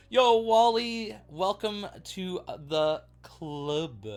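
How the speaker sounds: high, loud hype call; stretched-out hype greeting; excited shout-out. Real, not acted. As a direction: call out to Wally like a big fan. Greeting a viewer on stream.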